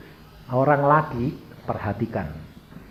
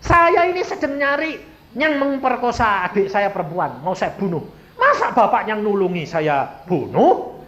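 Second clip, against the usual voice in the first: high-pitched tearful plea, acted; retold crying; 5 semitones higher, 5 dB louder than usual. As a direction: plead like a man in tears. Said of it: "Ini orang kepalanya nangis". (menirukan orang menangis)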